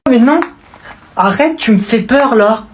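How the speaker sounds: high alarmed protest; little cousin pretending to be scared; mock fright. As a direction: act scared of the sudden niceness.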